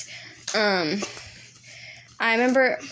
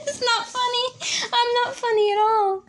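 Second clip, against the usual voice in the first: laughing denial; 14 semitones higher than usual. Real, not acted. Claiming to her friend it's not funny, high and laughing. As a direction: insist it's not funny while cracking up.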